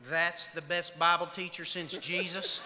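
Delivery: slow, drawn-out disbelief; sarcastic echo. Retold or imitated. Wife turning to husband after meeting his friend, slow sarcastic disbelief. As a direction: repeat the praise slowly, dripping with doubt.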